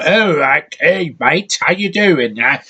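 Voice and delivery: lightly mocking Cockney accent, sneering; a hint of a Cockney caricature. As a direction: send up a Cockney accent you can't stand. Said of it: "they talk in that stupid".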